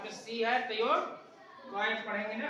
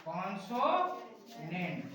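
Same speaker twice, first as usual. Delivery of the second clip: drawn-out word; 3 semitones lower, 4 dB quieter, much slower than usual. Shown as a demonstration. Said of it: "या फिर".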